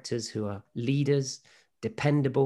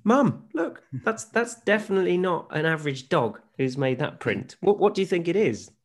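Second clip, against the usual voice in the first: put-on excited little girl; 5 semitones higher than usual. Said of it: "how did that conversation play out".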